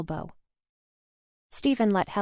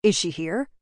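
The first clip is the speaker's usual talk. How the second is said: understated shout, louder and urgent; 5 dB louder than usual. A narrator's reading. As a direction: demand it with a raised voice. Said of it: "John shouted".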